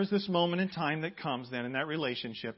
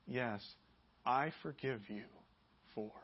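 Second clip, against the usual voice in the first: sincere forgiveness; 4 dB quieter than usual. Shown as a demonstration. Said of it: "look the other person back in the eye and say".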